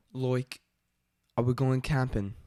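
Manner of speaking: tentative Australian accent; amateur attempt at Australian. Shown as a demonstration. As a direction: practise an Aussie accent. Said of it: "let's try Australian".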